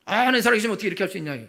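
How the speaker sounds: fast scornful imitation of a whiner; mocking complaint. Pastor mocks people who blame God, fast and scornful.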